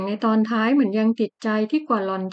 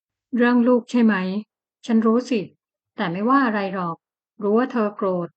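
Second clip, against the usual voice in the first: gentle. Acted. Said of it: "เขาบอกเสียงอ่อนโยน".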